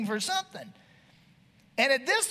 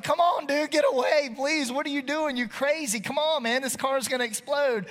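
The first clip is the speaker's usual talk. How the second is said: pleading yell; 4 semitones higher than usual. Retold or imitated. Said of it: "I was like".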